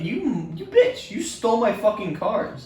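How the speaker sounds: mock yell, pitch jumping high on bitch; shouting the accusation again as a retelling; retold angry outburst. Telling how he yelled at the teacher, mock angry.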